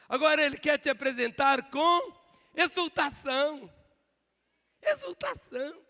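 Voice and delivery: high, loud preaching cry, ringing out exultação; fiery preaching. Acted. Pastor crying exultação out to the congregation, full-force preaching. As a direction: proclaim it to the back row.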